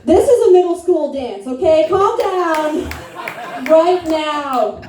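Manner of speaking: a hint of scolding the uncle; mock scolding. Niece mock-scolding Uncle Sonny, high half-joking rebuke.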